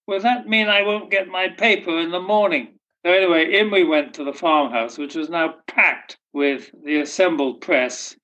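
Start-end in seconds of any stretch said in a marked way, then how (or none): 0.1-2.8 higher, lightly voiced old lady; a hint of a deaf old lady, innocently asking. Deaf old lady asks Alf about her morning paper, lightly voiced.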